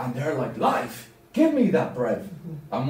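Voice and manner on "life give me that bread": high, eager "Life?" then a grab for the bread; mock eager crowd. Teacher retelling the crowd, mock eager. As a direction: play the eager crowd hearing about bread.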